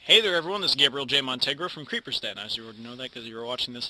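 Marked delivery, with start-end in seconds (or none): 0.0-2.4 upbeat channel intro; intro take. Shown as a demonstration. Youtuber recording his intro to viewers, upbeat. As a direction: greet the viewers like a host. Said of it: "that sounds so stupid".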